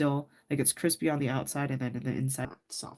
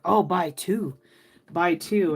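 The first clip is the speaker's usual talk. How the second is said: louder, lightly imitated Asian accent; older Asian lady's accent; 3 semitones higher, 6 dB louder, slower than usual. Older Asian lady urging a shopper to stock up, lightly imitated accent. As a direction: urge it like an auntie, with a hint of Asian accent. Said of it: "with her accent".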